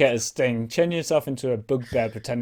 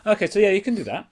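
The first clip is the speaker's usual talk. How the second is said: growling bugbear; 8 semitones higher, 5 dB louder than usual. Acted. GM voicing bugbears at stock exchange.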